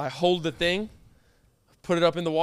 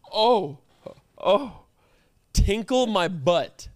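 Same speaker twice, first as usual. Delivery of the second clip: appalled; 3 semitones higher, much slower than usual. Real, not acted. Appalled repeating the phrase.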